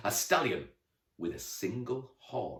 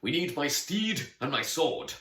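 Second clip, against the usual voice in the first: put-on young girl voice; 7 semitones higher, 5 dB louder than usual. A narrator's reading. Girl character voice.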